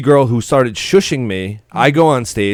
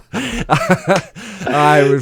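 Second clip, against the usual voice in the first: laughing; 8 semitones higher, much slower than usual. Real, not acted. Laughing at dandruff joke.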